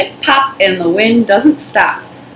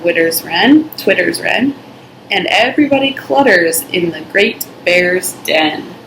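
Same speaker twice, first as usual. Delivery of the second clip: put-on reading to children. A narrator's reading. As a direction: read it like a bedtime story for little ones. Reading picture book aloud.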